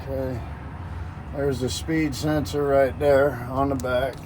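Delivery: talking while lying under a truck; strained voice from under the truck; lying under a car. Real, not acted. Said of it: "I'm under the truck".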